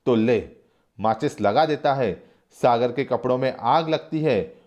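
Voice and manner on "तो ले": louder spiteful retort; acted angry snap. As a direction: strike the match in rage. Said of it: "Guman Singh गुस्से से कहता है".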